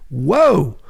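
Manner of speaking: a quick mock-shocked whoa. Reacting to the narc's insult with a mock-shocked whoa. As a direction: gasp at the insult in fake shock.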